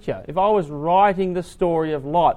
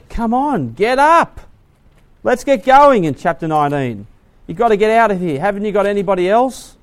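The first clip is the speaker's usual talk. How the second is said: high, loud urgent calls; urgent angels; 5 semitones higher, 7 dB louder than usual. Acted. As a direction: hurry him out, loud and high. Angels urging Lot out.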